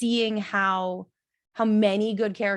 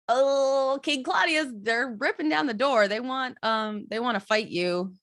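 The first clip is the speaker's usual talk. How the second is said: lightly acted panicked messenger, higher-pitched at first; mock panic; 4 semitones higher than usual. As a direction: bring urgent news in mild mock alarm. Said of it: "by the level of panic".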